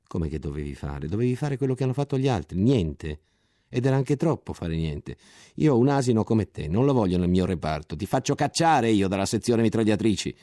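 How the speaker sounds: sempre più forte e acceso; rimprovero furioso. Acted. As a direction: sgrida il soldato con disprezzo. Ottolenghi sgrida il soldato. (Ottolenghi sgrida il soldato, sempre più forte e sprezzante)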